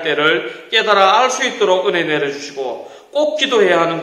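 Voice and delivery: measured, earnest prayer voice; closing prayer. Acted. Pastor praying for the children, earnest and measured.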